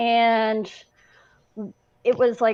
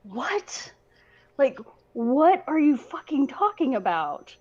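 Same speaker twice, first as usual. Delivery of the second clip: shocked disbelief; 4 semitones higher than usual. Retold or imitated. Sailor reacting to shipmates' news, shocked disbelief. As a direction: replay your disbelief, starting hushed. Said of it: "I was so shocked".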